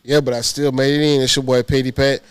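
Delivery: blocked nose, real cold; stuffy nose. Real, not acted. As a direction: talk through a stuffed-up nose. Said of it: "I'm sorry if I sound a little stuffy".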